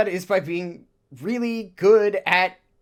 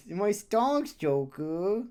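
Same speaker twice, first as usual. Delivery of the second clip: Morgana voice; 2 semitones higher, slower than usual. Retold or imitated. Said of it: "in the Morgana voice".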